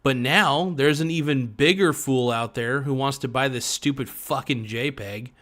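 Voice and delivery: ordinary talk, nothing marked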